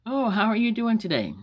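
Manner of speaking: high-pitched, gushing hello; fake-friendly greeting. Lady greets a mother in the grocery, fake-friendly. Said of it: "this lady came up and she said".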